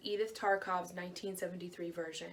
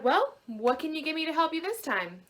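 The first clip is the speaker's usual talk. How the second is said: higher, bright little man's voice; chirpy little man; 7 semitones higher, 5 dB louder than usual. A narrator's reading. Tiny man returning to the weeping daughter, higher and chirpy. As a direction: pop in cheerfully.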